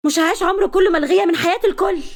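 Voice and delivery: wife screaming her refusal at her husband; shouting at him. Acted. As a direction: throw it back at him in a high shout. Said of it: "وصرخت فيه".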